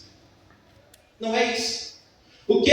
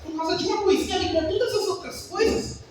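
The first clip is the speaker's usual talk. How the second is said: retold nervous panic; 7 semitones higher than usual. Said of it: "E eu fiquei nervoso".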